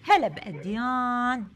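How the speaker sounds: ordinary talk, nothing marked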